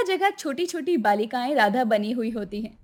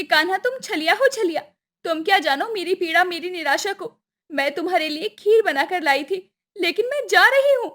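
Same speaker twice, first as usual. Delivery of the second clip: high, wounded indignation; higher-pitched, aggrieved heroine; hurt reproach; 6 semitones higher than usual. Acted. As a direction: reproach your lover, then storm off. Hurt Radha reproaches Krishna, storms off.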